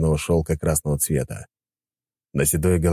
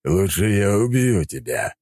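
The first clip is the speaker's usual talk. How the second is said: snarling monster; 2 semitones higher, slower than usual. Acted. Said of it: "оскалился монстр".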